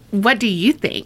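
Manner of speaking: put-on flippant teenage retort to "What do you think?"; snarky teen comeback; sassy teen. Shown as a demonstration. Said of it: "the response was more like".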